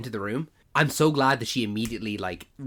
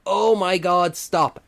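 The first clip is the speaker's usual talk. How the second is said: high, loud squirming cringe; cringing squeal; 8 semitones higher, 7 dB louder, much slower than usual. Retold or imitated. Viewer cringing at a scene, a high loud squeal. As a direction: squeal it out like you're curling up in a ball. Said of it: "you curled up in a ball and you put your fists into your chest".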